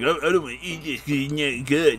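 garbled, babyish whiny mimicry; mock whining. Boy protesting to the cops, mock whining. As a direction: whine it like a petulant kid.

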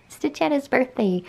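whispered. Real, not acted. Whispering about sleeping cat.

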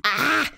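sudden high "ah" outburst; frustrated yelp. Real, not acted. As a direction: cry out under time pressure. Frustrated outburst under time pressure.

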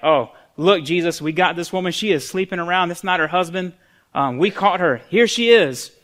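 building to a loud, high "here she is"; acted accusers. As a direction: play leaders loudly presenting the culprit. Acting accusers presenting caught woman.

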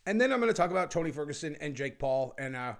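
talking around a cough drop; slightly thick, mouth full. Real, not acted. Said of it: "I had a cough drop in my mouth".

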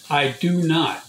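firm, emphatic "I do not". Retold or imitated. The Father disowning worship songs, very emphatically. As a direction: say "I do not" with emphasis on every word. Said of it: "he said that very emphatically".

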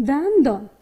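دندان in two distinct beats; split into syllables. Shown as a demonstration. Teacher modelling the split for pupils, دندان syllable by syllable. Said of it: "این رقم تجزیه کنید".

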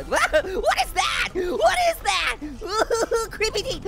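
slow frightened yell; scared shout. Real, not acted. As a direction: cry out in fright.

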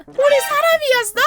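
loud, high-pitched shocked question; mock astonishment. Imitating viewers learning they are human, high mock shock. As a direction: cry out as if stunned. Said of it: "뭐 이러고 있어".

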